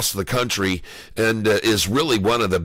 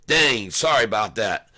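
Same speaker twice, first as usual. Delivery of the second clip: after eating wasabi. Real, not acted. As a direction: mouth burning from wasabi. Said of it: "wa-, wasabi".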